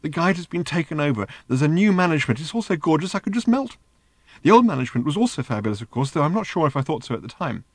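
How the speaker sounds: high, breathless robot in raptures; giddy little robot. Acted. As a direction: gush like a robot besotted with everything. Narrator voicing the giddy robot.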